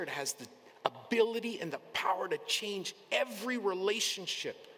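building fervor. Real, not acted. Preacher urging the congregation, building to a loud climax. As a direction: build it up like a revival call.

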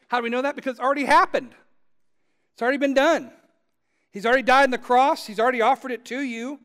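loud, high, driving preacher voice; full-force preaching. Acted. Preacher insisting the gift is already given, loud and high. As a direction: build it up like a revival preacher.

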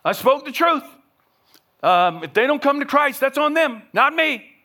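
high, loud, shrugging it off; dismissive attitude. Retold or imitated. Pastor mimicking Christians who blame the lost, dismissive. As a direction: wash your hands of them. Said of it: "some people have this kind of attitude".

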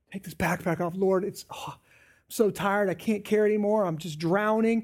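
tired plea, pace slowing on I'm so tired; mock-weary prayer with a sigh. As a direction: beg the Lord to take the load, worn out. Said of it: "what casting your anxieties on the Lord looks like".

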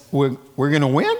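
quick, disbelieving question; surprised Ahab. Acted. Ahab hearing he will win, surprised. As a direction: Ahab can't believe he'll win. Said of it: "He says".

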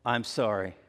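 mean every word of the apology; sincere apology. Shown as a demonstration. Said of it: "the way we do that".

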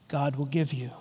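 hushed whisper of faith. Acted. Preacher voicing Martha's trust, whispered. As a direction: breathe the words out in a whisper.

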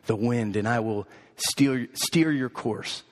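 low, softened mother bunny voice. Acted. Mother bunny promises to steer her child home, low and gentle. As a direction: answer low and steady, gently reassuring. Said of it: "And she says".

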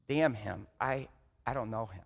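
low and soft, almost grieving; hushed repeat. Retold or imitated. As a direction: whisper the denial as if ashamed. Same curse repeated, now hushed.

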